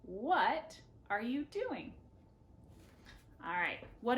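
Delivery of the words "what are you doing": slow, clear question for learners; teacher modelling a question; slow model question. Shown as a demonstration. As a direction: model it slowly. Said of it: "One more time".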